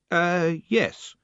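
high nervous squeak of a yes; words squeezed out by fear; a squeaky, trembling yes. Acted. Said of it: "which came out as a squeak".

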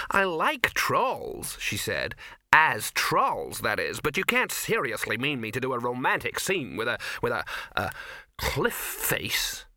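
lightly voiced disdainful actress; mildly hammed-up offended performer; indignant actress. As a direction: protest with fussy distaste, groping for an insult.

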